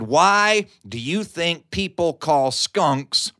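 slow, deliberate deadpan. Retold or imitated. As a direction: drag it out, straight-faced.

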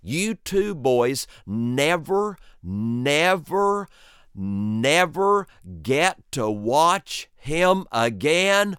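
hammed-up scolding, stretching never never never; mock-angry mother. Mother scolding her two boys, a light mock scold. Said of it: "She was so mad. She was saying".

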